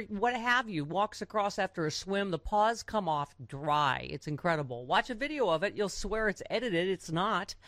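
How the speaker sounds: upbeat product ad voice; ad read. Acted. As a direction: sell it like a radio spot. Reads a product ad.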